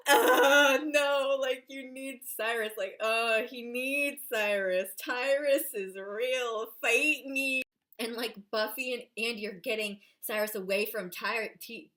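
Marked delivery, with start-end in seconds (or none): 0.1-7.6 gushing fangirl outburst. Retold or imitated. Fangirl reaction to the swing scene.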